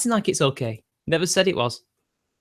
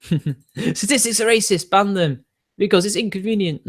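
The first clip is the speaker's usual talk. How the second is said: higher-pitched mock outrage with a laugh; 5 semitones higher than usual. Streamer parodying a viewer's argument about statistics, mocking. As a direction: parody a silly argument in a raised voice.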